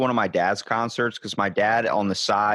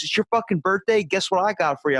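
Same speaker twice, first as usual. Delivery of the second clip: much higher, delighted surfer-dude outburst; thrilled rock singer; 8 semitones higher than usual. Retold or imitated. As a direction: build up the surprise gift. Singer reacts to birthday.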